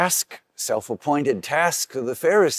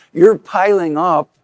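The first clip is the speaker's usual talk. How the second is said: Jesus rebuking; 2 semitones higher, 4 dB louder than usual. Retold or imitated. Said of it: "Jesus turns his anger at the lawyers and says".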